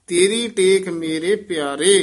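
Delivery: ਤੇਰੀ ਟੇਕ ਮੇਰੇ ਪਿਆਰੇ as one phrase, resting after ਪਿਆਰੇ; one flowing phrase closing on ਪਿਆਰੇ; pause after phrase. Shown as a demonstration. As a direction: carry through to ਪਿਆਰੇ, then stop. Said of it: "ਇੱਥੇ ਵਿਸਰਾਮ".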